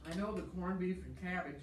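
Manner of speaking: talking through a mouthful of food; words round a bite of food; mouth full. Real, not acted. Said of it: "talking with my mouth full".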